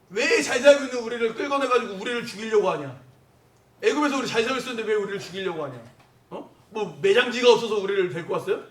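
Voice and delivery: acted-out accusing protest; resentful complaint. Preacher acts out Israelites blaming their leader, resentful. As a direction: throw the blame at the leader, pressing each question. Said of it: "원망이죠".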